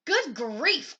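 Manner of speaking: loud exasperated groan; mock groaning good grief. A narrator's reading. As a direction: groan in dismay.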